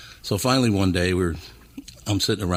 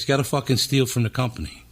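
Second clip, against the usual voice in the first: imitated boss, pitched up a little; high-voiced Philly boss; 5 semitones higher than usual. Boss telling new hire to steal, raised imitated voice. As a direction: play the Philly guy laying down terms. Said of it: "talk really high voice like this".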